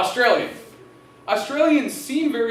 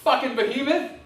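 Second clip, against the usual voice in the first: retold yell; 5 semitones higher, 4 dB louder than usual. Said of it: "And I said".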